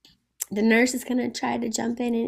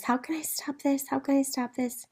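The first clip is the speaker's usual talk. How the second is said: lightly acted plea, higher and softer; begging; 4 semitones higher, 5 dB quieter than usual. Juliet asking the nurse for help, mildly begging. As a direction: plead softly with raised pitch. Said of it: "Juliet's begging the nurse".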